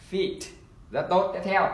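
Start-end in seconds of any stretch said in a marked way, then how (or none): 0.1-0.4 "Feet" said short and quick; a bit quicker. Shown as a demonstration. Teacher asks class to read faster, quick short Feet. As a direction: snap through "Feet" without holding the ee. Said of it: "Chúng ta đọc nhanh một chút nhá".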